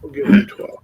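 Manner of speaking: high, loud and eager; excited. Real, not acted. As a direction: pitch it up with glee. Excited offer to monster.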